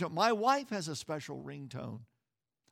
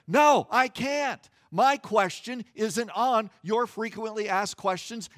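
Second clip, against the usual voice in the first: indignant retort; 7 dB louder than usual. Real, not acted. Answering the recorded hold message.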